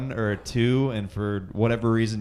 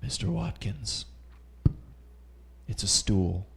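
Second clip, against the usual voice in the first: doctor voice; 3 semitones lower, 8 dB quieter than usual. Retold or imitated. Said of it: "the doctor's just gonna".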